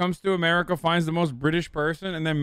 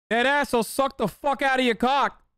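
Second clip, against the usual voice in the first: put-on Massachusetts accent, pitched up; 8 semitones higher than usual. Running through American accents, doing one more in a put-on Massachusetts accent. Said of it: "There's one more. Massachusetts".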